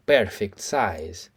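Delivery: very slow, drawn out; drawn-out mimicry; slow stretched echo. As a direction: savour each word slowly.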